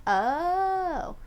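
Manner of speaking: hammed-up French caricature with cartoon chuckle; mock French accent. Streamer imitating someone in a group call, mock French accent. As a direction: put on a silly French accent, stretching the "oh". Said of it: "And someone would ask".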